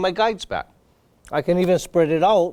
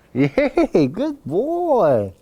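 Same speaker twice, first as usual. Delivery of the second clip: excited praise; 7 semitones higher, much slower than usual. Real, not acted. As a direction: praise the dog like you're thrilled. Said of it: "I'll praise him".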